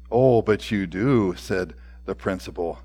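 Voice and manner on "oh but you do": low, slow, patient answer; gentle insistence. A narrator's reading. Principal gently answers the scoffing boy, patient. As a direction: drop the pitch and take your time.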